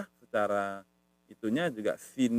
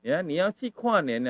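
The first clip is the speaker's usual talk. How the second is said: slow teaching demo; drawn-out model phrase; example sentence; 3 semitones higher, slower than usual. Shown as a demonstration. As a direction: say the example slowly for learners. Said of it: "Kuanen itu kayak orang melihat".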